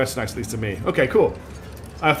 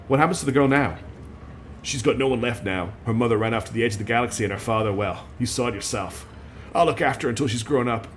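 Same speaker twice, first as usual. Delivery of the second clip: put-on Texas accent; 3 semitones lower, 3 dB quieter than usual. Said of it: "I can't do a Texan accent".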